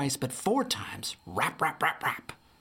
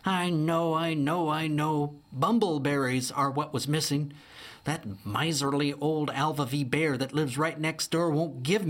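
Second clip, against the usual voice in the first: 1 fretful Opal; 4 semitones higher than usual. Acted.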